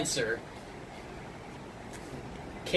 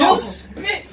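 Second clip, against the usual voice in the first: urgent shout; 13 semitones higher, 6 dB louder than usual. Real, not acted. Urging friend to spit.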